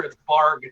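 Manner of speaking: "barg" with a hard g; half orc word. Acted. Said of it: "in half orc culture".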